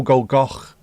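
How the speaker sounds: "go, Goch" ending in a throaty ch; Welsh ch. Shown as a demonstration. Streamer spelling the sound out for chat. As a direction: rasp the ch of "Goch". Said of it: "followed by go".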